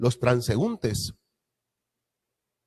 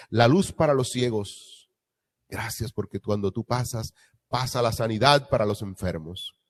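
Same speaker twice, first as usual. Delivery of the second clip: fervent thankful prayer, fading at the end; closing prayer. Acted. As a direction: pray aloud to the congregation, softening to amen. Pastor leads closing prayer. (oración de gratitud ferviente)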